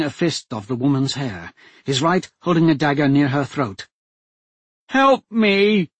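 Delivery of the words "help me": high, loud plea for help; frightened cry for help. A narrator's reading. Hostage duchess crying out for help, loud and frightened. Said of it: "Jenny Winter cried".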